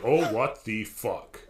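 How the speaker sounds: slow, drawn-out stunned curse; appalled disbelief. Acted. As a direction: stretch out each word in mock dismay. Ranger finds ghost boy inside.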